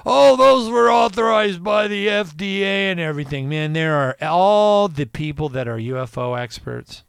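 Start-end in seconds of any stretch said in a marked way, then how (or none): 0.1-3.5 mock press secretary. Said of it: "press secretary comes out and says".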